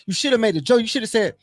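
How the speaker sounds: high, lively mentor voice; big brother advising. Retold or imitated. Big brother teaching the pledge a joke, lively. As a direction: coach him like the big brother. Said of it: "He was like".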